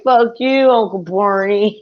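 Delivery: put-on high, loud kid taunt; mock taunting shout. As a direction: kids yelling at deaf Uncle Barney, loud and high. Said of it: "we'd be like".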